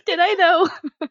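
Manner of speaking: slow, high teasing drawl. Real, not acted. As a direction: stretch it out playfully. Teasing mock question.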